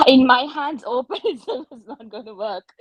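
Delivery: amused at how absurd the examiner's question was; laughing through it. Real, not acted. Surgeon laughing at the examiner's question, laughing while saying it.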